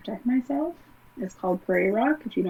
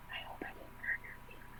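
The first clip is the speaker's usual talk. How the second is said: quick, breathless whisper with a sly edge; evil nasty whisper; 21 dB quieter, faster than usual. Retold or imitated. Stepmother leans in to taunt her, in an evil whisper. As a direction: hiss it sweetly into her ear, all menace. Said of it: "evil, nasty whisper".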